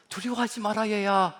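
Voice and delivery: tender fatherly "두려워하지 마라, 얘야"; gentle comfort. Shown as a demonstration. God comforting his child, tender fatherly voice. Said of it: "이것이 위로로 들립니다".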